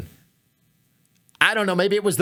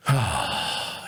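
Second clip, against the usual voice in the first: sigh; 11 semitones lower, 4 dB quieter than usual. Acted. Pausing to calm himself down.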